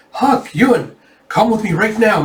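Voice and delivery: high, loud summons; urgent call. Retold or imitated. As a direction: hurry them along. Yona runs up, urgent call.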